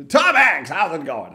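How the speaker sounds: a loud, laughing stab at Tom Hanks; laughing attempt. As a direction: burst out laughing while greeting. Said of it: "Do a Tom Hanks impression".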